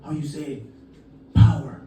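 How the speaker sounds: imitating a vendor groping for words; soft, broken phrases with searching pauses; halting English. Street vendor with little English pitches necklace, halting English. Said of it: "dude didn't speak much English".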